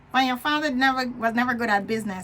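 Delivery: a hint of a scornful inner voice; inner critic. Inner critic taunting the dreamer, mild sneer. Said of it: "The inner critic".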